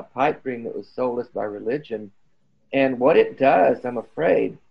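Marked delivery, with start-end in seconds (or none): 2.7-4.6 hoarse, voice giving out; losing my voice mid-sentence. Real, not acted. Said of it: "I'm losing my voice here".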